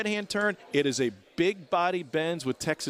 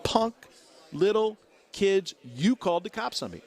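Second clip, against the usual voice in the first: put-on raised, angry snarl at the kids; angry accusation; 6 semitones higher than usual. Angry driver yelling at the kids in the back seat. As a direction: accuse them hotly. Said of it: "he goes".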